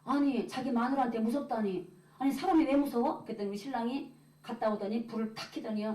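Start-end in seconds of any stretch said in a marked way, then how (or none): 0.0-3.2 mildly indignant retort; retold wifely protest, a touch put out; offended. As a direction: object as if mildly insulted. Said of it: "제가 하도 기분 나빠서".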